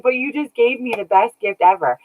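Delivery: a light, high imitation of her husband's tender words; hint of a choked-up husband; voicing husband. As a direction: lightly voice him, moved and grateful. Husband's tearful reply retold.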